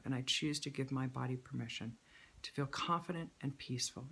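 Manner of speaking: slow, deliberate choice statement; measured affirmation read. Shown as a demonstration. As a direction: lay each phrase down slowly and calmly. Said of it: "you're just gonna add a choice".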